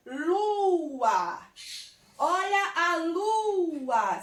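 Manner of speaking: lua with a long swooping LUUU-a; drawn-out vowels. Shown as a demonstration. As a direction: stretch the U of lua before the A. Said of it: "se eu falar a palavrinha lua".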